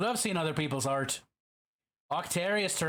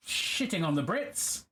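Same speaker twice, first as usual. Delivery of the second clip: a put-on Irish lilt on "shitting on the Brits", a little slow; playful mock Irish brogue on "Brits"; hammed-up Irish accent; slower than usual. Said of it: "I lost my accent for that one".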